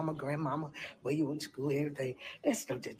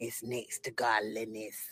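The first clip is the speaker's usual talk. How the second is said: deep, demonic voice; 5 semitones lower than usual. Addressing the group, in a demonic voice. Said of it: "she sounded like a demon when she said that".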